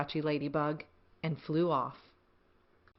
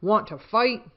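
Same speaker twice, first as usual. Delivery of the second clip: grouchy ladybug; 3 semitones higher, 5 dB louder than usual. Acted. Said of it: "said the grouchy ladybug".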